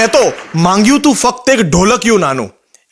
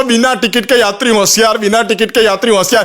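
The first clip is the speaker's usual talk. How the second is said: station announcement. Retold or imitated. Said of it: "announcement કરો છો".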